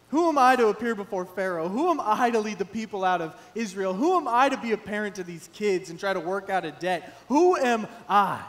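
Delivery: loud, insistent pleading questions; loud pleading protest to God; protesting Moses. Retold or imitated. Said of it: "Moses protested to God".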